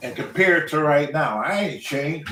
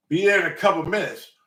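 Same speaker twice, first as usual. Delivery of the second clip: retold text reply; 4 semitones higher than usual. Cousin texting back to the waiting driver, mock breezy.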